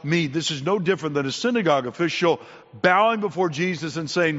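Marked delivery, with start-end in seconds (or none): 0.0-0.3 drawn-out imitated plea; retold crying out. Blind Bartimaeus calls from the roadside, slow retold plea. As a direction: cry out slowly for help, word by word. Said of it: "he's crying out".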